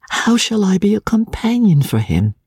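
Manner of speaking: high-pitched, fretful self-questioning; timid young wife, anxious. A narrator's reading. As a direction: worry to yourself in a high voice. Voices Emmy's anxious thoughts.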